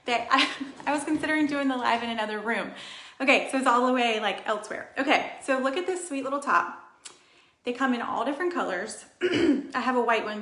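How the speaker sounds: breathless after rushing back; out of breath. Real, not acted. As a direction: talk out of breath, panting. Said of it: "I'm out of breath".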